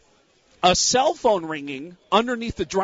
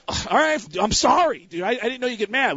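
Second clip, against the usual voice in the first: retold apology; 4 semitones higher than usual. Retold apology to angry friend.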